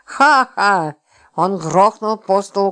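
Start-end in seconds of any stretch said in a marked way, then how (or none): 0.1-1.0 short loud mocking laugh. Lipochka laughing at Roman's loss, mocking laugh. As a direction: laugh right in his face. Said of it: "И она рассмеялась".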